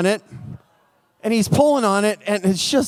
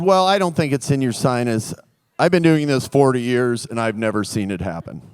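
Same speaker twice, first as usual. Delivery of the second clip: lower doctor voice; 9 semitones lower than usual. Retold or imitated. Doctor confidently dismissing the patient.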